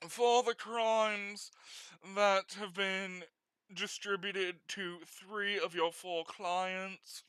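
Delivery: slow, formal judge listing the charges; judge reading charges. Acted. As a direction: read the charges like a stuffy judge.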